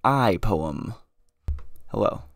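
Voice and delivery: loud, drawn-out theatrical proclamation; over-the-top stage declaiming, slowing right down; hammed-up dramatic. Shown as a demonstration. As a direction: boom it out with mock grandeur. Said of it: "You gotta get dramat-, dramatic".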